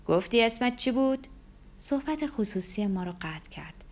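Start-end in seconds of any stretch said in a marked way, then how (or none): 0.1-1.3 moderately raised voice, louder and higher; loud question. A narrator's reading. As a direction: call it across to the women. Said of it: "با صدای بلند گفت".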